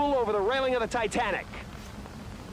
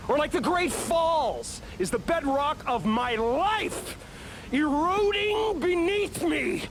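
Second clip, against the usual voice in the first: slow dramatic lament; 5 semitones higher, slower than usual. Acted. Reporter breaking down on air.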